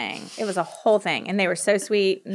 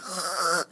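imitated parched throat noise; dry-throat rasp; 3 semitones lower, 9 dB quieter than usual. Reader after three hours in the booth, dry-throat rasp. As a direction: rasp like your throat has dried out. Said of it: "your throat, you, now you're like".

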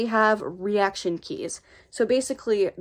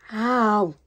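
drawn-out ow of real pain. Real, not acted. Speaker's knee hurts mid-video, pained ow. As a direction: let out a long "ow". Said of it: "my freaking knee hurts".

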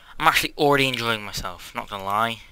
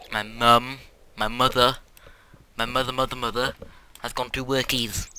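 put-on baby talk. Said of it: "why am I talking like your babies".

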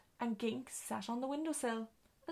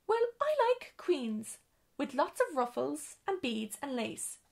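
cross; 3 semitones higher, 4 dB louder than usual. Acted. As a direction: say it crossly and huffily. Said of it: "said Miss Dorp crossly".

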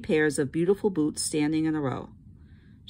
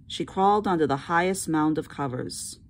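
plain reading voice

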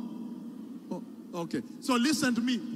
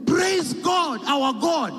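shouted praise; 4 semitones higher, 3 dB louder, slower than usual. Acted. Preacher exclaiming.

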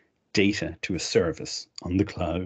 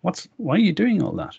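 a higher, quizzical voice for someone else; puzzled onlooker; 9 semitones higher than usual. Retold or imitated. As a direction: mimic a baffled classmate questioning the changes. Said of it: "they would go".

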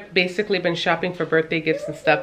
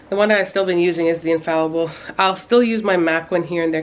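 breathless after running the stairs; out of breath. Real, not acted. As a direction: talk while catching your breath. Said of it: "Can you tell I'm out of breath?".

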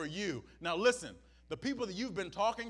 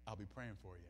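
much lower and much softer, dismissive; mock hollow sympathy; 13 semitones lower, 16 dB quieter, much faster than usual. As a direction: toss it off low and empty. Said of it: "this is our help".

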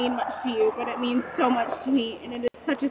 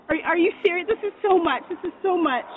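higher and louder, words tumbling in disbelief; overwhelmed; 4 semitones higher, 4 dB louder than usual. Real, not acted. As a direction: overcome by an unexpected kindness. Overwhelmed thanks for gift.

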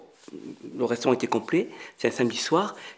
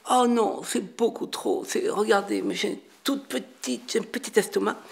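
imitated lady diner; 8 semitones higher than usual. Lady tells the restaurateur she's too full, high imitated voice. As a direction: play a dainty woman politely declining. Voicing the lady declining more food.

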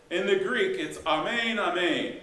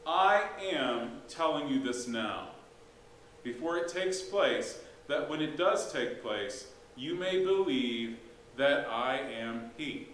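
slow, weighty reading; solemn scripture quote; slower than usual. Acted. Pastor quoting Jesus to the congregation, slow and solemn. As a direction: let each phrase land slowly.

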